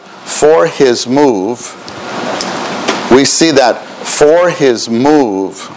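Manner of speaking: very slow, spaced out words; dictating. Shown as a demonstration. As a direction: dictate it for note taking. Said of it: "please write this".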